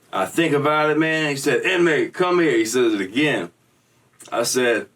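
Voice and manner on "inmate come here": mock guard call. Guard calling over intercom.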